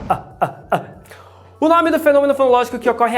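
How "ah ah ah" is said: Ah, ah, ah cut off sharply in the throat; glottal stop demo. Shown as a demonstration. Showing the glottal stop to the class: clipped Ah, ah, ah. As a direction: chop each Ah with a glottal catch. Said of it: "oclusiva glotal desvaziada".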